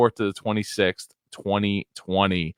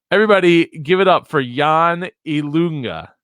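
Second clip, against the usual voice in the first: high, loud announcer call to the crowd; big show-host welcome; hype-man intro; 7 semitones higher, 3 dB louder than usual. Real, not acted. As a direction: whip up the audience for the guest. Host hypes up guest intro.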